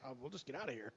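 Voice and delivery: soft laughing quote. Retold or imitated. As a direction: chuckle through the words. Laughing reply.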